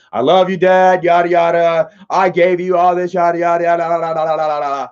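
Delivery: mock gushing speech that runs into blah-blah; mocking attention-seeker. Brother making a show of giving Dad his gift, mocking imitation. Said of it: "has to be center of fucking attention".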